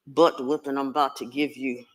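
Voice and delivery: a low, stern mother's scolding that swells into loud bursts; stern mother warning a child; stern scolding parent. Acted. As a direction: lay down the law before the whipping. Parent scolding before a whipping.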